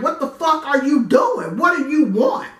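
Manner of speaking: scared woman shouting defensively; shouting at him. Retold or imitated. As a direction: yell at the stranger to back off. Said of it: "And I was like".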